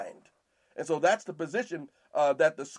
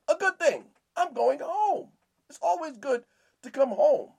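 much higher, joyful cry of coming home; excited homecoming; 8 semitones higher, 4 dB louder than usual. Pretend. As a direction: sing out the joy of being home. Voicing joy of homecoming.

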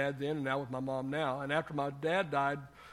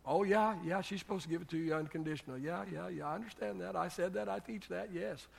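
dismissive concession; 3 semitones higher, 4 dB quieter than usual. Acted. Brushes off an expected objection.

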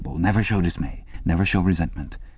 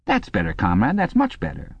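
encouraging; 5 semitones higher than usual. A narrator's reading. Instructress praises Winston's successful stretch, encouraging and rising high. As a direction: praise climbing into a high pitch. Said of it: "she added encouragingly as Winston".

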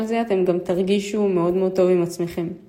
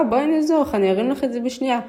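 higher, eager, fast insisting; insistent offer; 5 semitones higher, much faster than usual. Retold or imitated. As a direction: press the offer brightly. Insisting on helping old woman. (הצעה נלהבת ומתעקשת)

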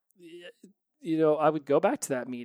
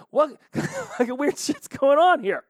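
high, slow laughing outburst of disbelief; higher, louder, laughing at the absurdity; 12 semitones higher, 5 dB louder, slower than usual. Real, not acted. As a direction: laugh at how absurd it was. Incredulous at dad's logic.

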